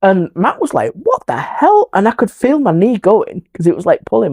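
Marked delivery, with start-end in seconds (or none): 0.9-1.9 very high-pitched mock disbelief; imitating a startled friend; retold shock. Acting out friend's shocked reaction.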